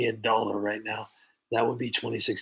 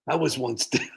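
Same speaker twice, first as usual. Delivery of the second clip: cracking up while quoting the scammer; can't keep a straight face on the word down; laughing mid-quote; 3 semitones higher than usual. Retold or imitated. Streamer laughing through the scammer's sob story.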